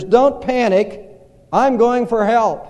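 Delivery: slow, steady, lightly voiced calm pilot; deadpan calm, hiding the danger. Pilot telling passengers as he bails out, mock calm and slow. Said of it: "he said calmly to the passengers".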